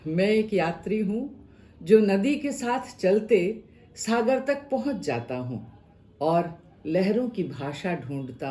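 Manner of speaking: measured poem reading with lifted phrases and falling closes; expressive Hindi verse recital; poem recitation. Acted. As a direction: recite it line by line, with pauses between phrases.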